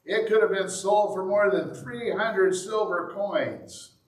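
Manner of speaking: mildly angry disciples; angrily. A narrator's reading. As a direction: scold her for the waste. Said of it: "angrily said to one another".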